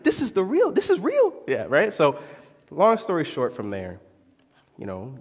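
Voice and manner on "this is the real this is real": high, rising amazed exclaim; excited realization. Retold or imitated. Realizing the prayer's meaning, high amazed exclaim. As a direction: it suddenly clicks, say it in awe.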